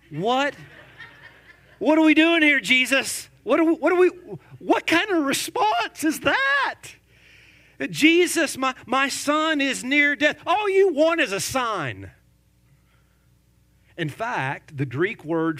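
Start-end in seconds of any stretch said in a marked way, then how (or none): 0.1-6.8 high, loud disbelieving shout at Jesus; stunned, shouting what kind of response; incredulous outburst. Real, not acted. Exasperated outcry at Jesus' reply. 7.9-12.1 pleading father. Acted. Voices desperate father and Jesus.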